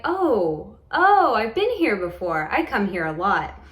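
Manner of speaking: lightly voiced little kid, swooping "oh"s. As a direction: imitate a child's delighted recognition. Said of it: "like a little kid".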